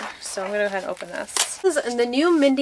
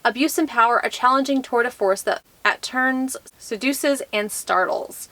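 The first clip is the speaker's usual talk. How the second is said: measured, even read-aloud delivery; book blurb reading. Acted. Vlogger reads a book blurb to viewers, measured read-aloud. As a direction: read the back-cover copy aloud.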